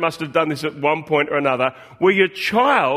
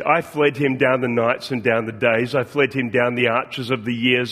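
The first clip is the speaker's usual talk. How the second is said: poem reading; 5 semitones lower than usual. Acted. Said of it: "he said this".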